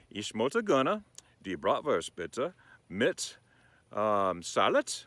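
slow, careful German order. Shown as a demonstration. Slowly ordering a bratwurst from the server. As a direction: spell out each German word. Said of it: "So I'm gonna say".

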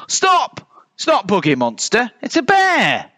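high, urgent bear voice; high-pitched excited realisation; exclaimed. A narrator's reading. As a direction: call a halt in high surprise. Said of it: "exclaimed the one with the biggest".

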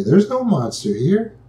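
a hint of a parent coaxing a child to look; reassuring parent. Parent at the closet lightly reassures frightened child. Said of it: "that loving parent might ... say".

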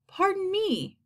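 high, polite murmur; murmured ladybug. A narrator's reading. Ladybug turning pale to the others, high murmur. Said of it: "murmured the ladybug".

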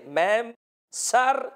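slow, deferential, mincing politeness; imitating polite respect to a teacher; overly polite address. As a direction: drag it out sweetly, like greeting the boss. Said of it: "کتنے style سے".

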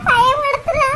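high, slow wailing sobs; crying. Acted. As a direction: break down weeping over her sister. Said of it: "அக்கா, அழுகாதக்கா".

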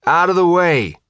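loud, firm shout; forceful order. A narrator's reading. Bodyguard to the reporter, shouting him aside. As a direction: clear the path with your voice.

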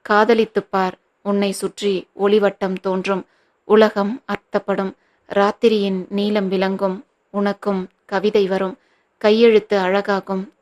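a light put-on poet's recital voice, teasing; Vairamuthu voice. Friend teasing Jagan by reciting love verse, a hint of a poet's voice. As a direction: lightly mimic a grand poet reciting verse. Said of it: "வைரமுத்துவை போல குரலை மாற்றிக்கொண்டு".

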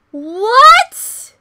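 screaming what, fading each time; huge disbelieving yell fading away; shocked shout. Real, not acted. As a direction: yell in disbelief then calm down. Reacting to Yunho's extreme line.

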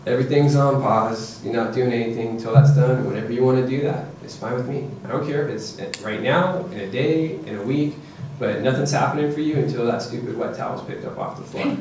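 even, unbothered parent; composed game-face firmness; calm. Shown as a demonstration. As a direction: state the rule coolly, no arguing. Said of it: "you calmly walk up, put your game face on".

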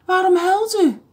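lightly voiced friendly policeman; storybook policeman asking kindly. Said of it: "zei de agent".

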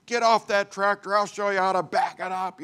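high-pitched yelling father impression; imitated screaming father. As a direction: imitate a fed-up dad hollering orders. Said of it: "And he's screaming at me".

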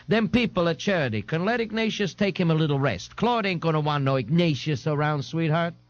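a touch of brassy neighbourhood busybody; Santa, brassy. Acted. Santa advising her friend on the phone, mildly brassy. Santa voiced in narrated story.

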